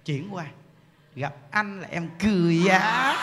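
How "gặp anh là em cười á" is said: slow, drawn-out line climbing at the end; wife sweet-talking husband. Acted. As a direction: play a wife cooing to her husband. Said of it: "dùng cái tông của những đức mà chuyển qua thằng chồng".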